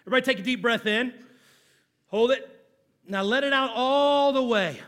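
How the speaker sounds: preacher guides congregation breathing; breathing instruction. Shown as a demonstration. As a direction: coach the breath in and out. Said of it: "learn to relax".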